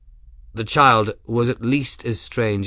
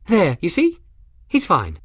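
lightly voiced dotty girl, pitch leaping about; chattering odd girl. Young woman assesses her patient aloud, lightly voiced dotty chatter. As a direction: chatter to no one in particular, lilting up and down.

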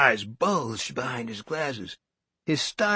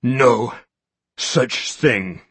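panting; 4 dB louder, much slower than usual. A narrator's reading. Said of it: "he panted".

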